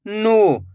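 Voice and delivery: नू with a long held oo; one sustained syllable, नू; drawn-out vowel. Shown as a demonstration. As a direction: stretch the vowel of नू. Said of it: "खींच के पढ़ा जाता है".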